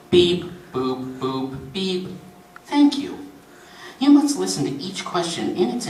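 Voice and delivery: lightly voiced recorded questionnaire with mouthed keypad beeps; recorded menu delivery; automated phone menu. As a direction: read it like an automated benefits hotline.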